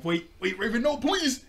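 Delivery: very high mock pleading; pleading Cyborg. Cyborg begging Raven before the stink ball hits, high pleading. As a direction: beg her to stop, hammed up. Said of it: "you just hear Cyborg go".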